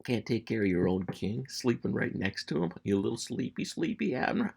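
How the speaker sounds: teasing taunt, pitch jumping up on the last jab; mock-babying jibe; smack talk. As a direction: needle the dozing guard like a kid. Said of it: "One guy just smack jabbing another guy".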